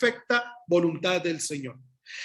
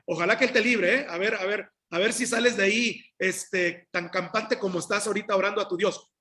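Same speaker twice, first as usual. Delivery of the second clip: a light sneering taunt; mock sarcasm. Shown as a demonstration. Preacher showing the king's wrong, mocking reading, lightly sneered. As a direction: jeer at him as if daring him to escape. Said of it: "de burla, sarcástica o despreciativa".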